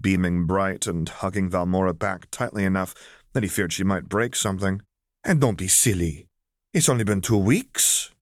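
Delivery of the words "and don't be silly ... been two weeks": grinning admonishment. Acted. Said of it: "she admonished Valmora with a grin".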